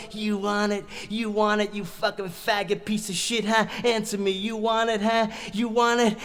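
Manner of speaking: heated, insistent demand; mock yell. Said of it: "and he's yelling".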